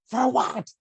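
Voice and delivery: high, incredulous yelp of surprise; voicing stunned patients asking why; surprised. Patients shocked at the investigation.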